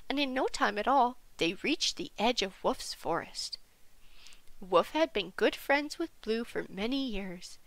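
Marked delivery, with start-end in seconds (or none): none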